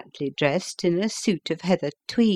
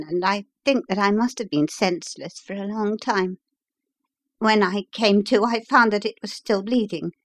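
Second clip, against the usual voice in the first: slightly raised voice of the injured visitor; lightly voiced patient; 3 semitones higher than usual. Injured engineer tells the doctor about the bleeding, lightly voiced patient. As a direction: lightly play the patient recounting his ordeal.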